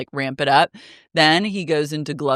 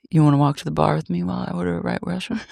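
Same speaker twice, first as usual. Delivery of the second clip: fast breezy invite; much faster than usual. Retold or imitated. Imitating Dodie's come-on.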